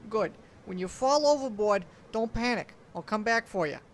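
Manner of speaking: loud gruff reassurance; shouting over the wind. A narrator's reading. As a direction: yell it over the storm. Uncle shouting over storm.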